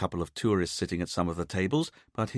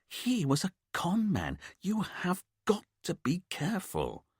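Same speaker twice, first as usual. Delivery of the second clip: anxious scolding; 11 semitones higher than usual. A narrator's reading. Richard scolding mother.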